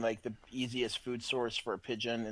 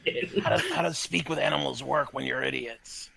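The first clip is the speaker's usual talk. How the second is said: laughing; 5 semitones higher, 5 dB louder than usual. Acted. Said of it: "I'm official animal voice man".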